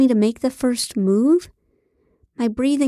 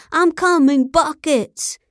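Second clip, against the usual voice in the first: high, hammed-up climax cry; screamed; 6 semitones higher, 3 dB louder, slower than usual. A narrator's reading. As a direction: scream it out for the cameras, overdone. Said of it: "he screamed".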